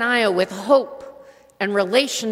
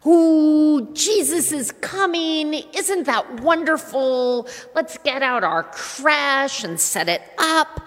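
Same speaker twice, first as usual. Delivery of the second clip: gushing excitement; 3 semitones higher than usual. Retold or imitated. Voicing giddy Advent excitement.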